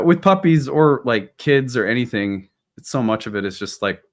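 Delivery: ordinary talk, nothing marked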